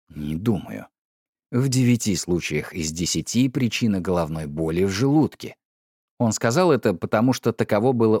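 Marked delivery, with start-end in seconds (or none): 0.1-5.5 low, measured husband voice; a touch of a stern husband; husband Kennedy. A narrator's reading. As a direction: speak as the stolid husband, lower.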